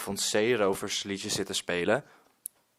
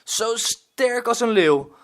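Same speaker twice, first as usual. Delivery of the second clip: put-on high, slow, awed child voice stressing als; Frank's line "als een leeuw" said high and wondering by the child; admiring little boy; 11 semitones higher, 7 dB louder, slower than usual. Rescued boy praises the pirate, high admiring voice. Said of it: "zegt Frank".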